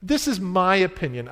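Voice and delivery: "my" leaned on in "my opinion"; "my" stressed to claim the opinion. Acted. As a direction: put the weight on "my". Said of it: "It's an emphasis that Paul says".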